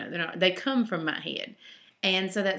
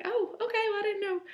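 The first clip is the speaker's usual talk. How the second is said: retold own reaction; 13 semitones higher than usual.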